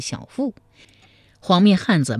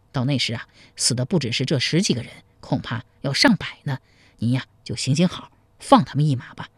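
smiling plea; 3 semitones lower, faster than usual. Acted. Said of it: "面带微笑说".

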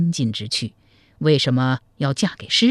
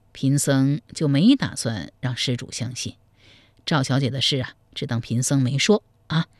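put-on lower, measured old monk's voice; a sly monk confiding gossip; 4 semitones lower, 4 dB quieter than usual. Monk tells the groom about the bride, low and measured.

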